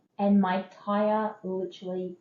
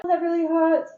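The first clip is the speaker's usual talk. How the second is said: mild pained surprise; 8 semitones higher, 4 dB louder than usual. Retold or imitated. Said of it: "And I was like".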